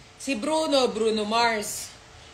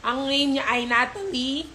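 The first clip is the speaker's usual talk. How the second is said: normal talking voice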